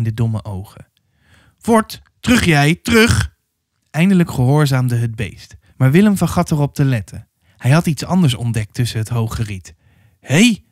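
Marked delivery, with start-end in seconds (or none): 1.6-3.3 high-pitched drover's command; driving cattle back. A narrator's reading. 10.2-10.6 high, sudden hey; surprised call. A narrator's reading. Drover spots the girl, calls out.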